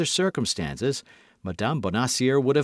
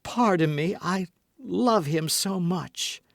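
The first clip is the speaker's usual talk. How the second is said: heartfelt plea; 7 semitones higher, slower than usual. A narrator's reading. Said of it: "cried she".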